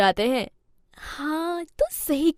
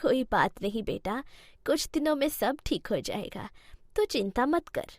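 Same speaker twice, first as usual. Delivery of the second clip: soft reassurance; 6 dB quieter than usual. Acted. Mother-in-law quietly reassures her son, soft and calm. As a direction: gently settle the worried son.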